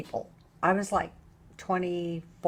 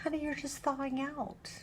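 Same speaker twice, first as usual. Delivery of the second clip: put-on gentle old lady; 5 semitones higher, 6 dB louder than usual. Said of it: "this little old lady came up to me and said".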